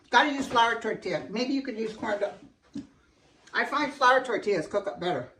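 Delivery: talking while chewing; mouth full. Real, not acted. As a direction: speak through a mouthful. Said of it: "talking with my mouth full".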